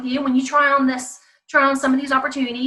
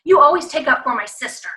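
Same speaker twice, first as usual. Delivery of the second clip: mimicking child; 4 dB louder than usual. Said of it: "If they say, for example".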